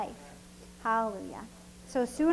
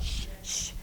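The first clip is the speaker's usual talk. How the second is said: soft whispered shh; whispered shushing; 6 semitones lower, 9 dB quieter than usual. Retold or imitated. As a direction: hush the kid in a whisper. Parent hushing child in store.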